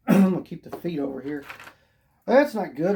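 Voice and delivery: losing my voice, hoarse; hoarse voice giving out. Real, not acted. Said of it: "I'm losing my voice".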